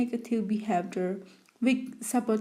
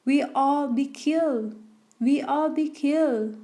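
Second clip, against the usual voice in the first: mild mock yell, slightly raised pitch; panicked yelling; 3 semitones higher than usual. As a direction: act out a panicking captain's yell, half-hearted. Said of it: "aisle yelling".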